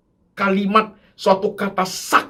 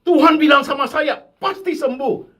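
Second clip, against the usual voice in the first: retold pastor; 10 semitones higher than usual. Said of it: "pendetanya ngomong".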